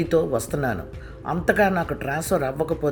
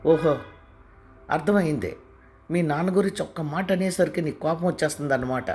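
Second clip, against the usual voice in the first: higher, louder furious tirade building up; angry outburst; 5 semitones higher, 3 dB louder than usual. A narrator's reading. Wife raging at her husband about his father, louder and higher. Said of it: "అంది కోపంగా".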